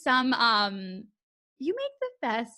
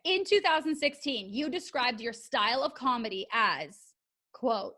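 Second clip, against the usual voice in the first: TWO THOUSAND pitched up, then "quote" set apart by pauses; deliberate stress on "two thousand", pausing before "quote"; stressed-out emphasis. Real, not acted. Host reading a guest's old quote back to her, deliberately emphatic. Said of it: "talking like this to stress it out".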